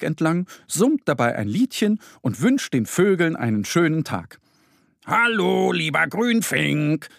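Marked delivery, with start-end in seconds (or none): 5.0-7.1 bright little bear calling a bird, higher; chirpy greeting. Acted. Bear Mo greeting a greenfinch, chirpy. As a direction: chirp it out like a happy cub. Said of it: "zwitschert er".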